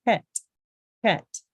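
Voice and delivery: "Het" with a rasping kh from the throat; throaty het. Shown as a demonstration. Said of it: "Do you hear that?".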